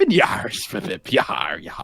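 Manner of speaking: drawn-out pirate yar, falling low; pretend pirate. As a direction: stretch it slowly like a mock pirate. Pirate play on team name.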